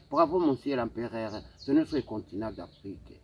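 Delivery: declaimed ode to a leader; praise poem recitation. Acted. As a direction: recite it as a formal tribute in verse. (déclamation d'un poème élogieux)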